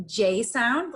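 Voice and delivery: the J sound as in jelly, said slowly; J sound demonstrated. Shown as a demonstration. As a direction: say J clearly like in jelly. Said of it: "anytime you hear that J".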